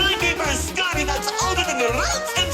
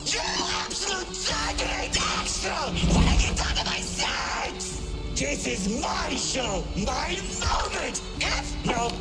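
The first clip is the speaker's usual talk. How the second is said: villain rant. Acted. Villain ranting at intruders.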